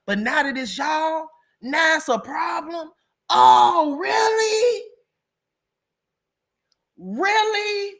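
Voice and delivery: high, drawn-out questioning, climbing to a squeal; mock incredulity. Real, not acted. Calling out viewers' double standard, mock incredulous. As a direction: challenge them with exaggerated disbelief.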